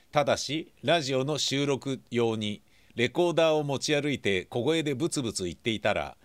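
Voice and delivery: mock-serious secret agent briefing read over music; spy mission briefing. Radio host reading the listener mail as a mock-serious mission briefing. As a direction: read it like a spy's mission orders, deadpan.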